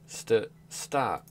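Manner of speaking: mock urgent cry; shout stop. Streamer voicing the hero crying out to the villain, loud. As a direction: call out to halt him.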